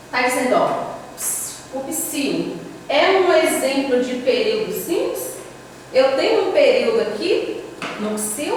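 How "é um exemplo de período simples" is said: rising doubtful question. Real, not acted. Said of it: "teacher questions the claim".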